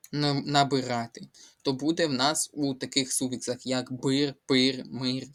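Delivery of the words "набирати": набирати stressed on the А of -РА-. Shown as a demonstration. Teacher explaining a spelling rule, набирати stressed on the А of -РА-. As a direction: lean on the third syllable, набирати as на-би-РА-ти. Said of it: "падає наголос на А".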